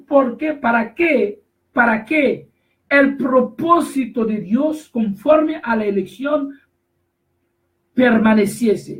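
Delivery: slow, drawn-out scripture reading; lectura bíblica enfática. Acted. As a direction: proclaim the verse slowly, word by word. Repite el versículo predicando. (lectura lenta y solemne del versículo)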